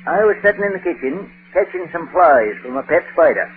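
put-on rural New England accent, dry and unhurried; a dry old New England farmer; New England rustic accent, deadpan. Titus Moody voice all lines.

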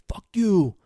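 imitated angry shout; yelling. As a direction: curse them out as you storm off. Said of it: "you hear screaming in the background".

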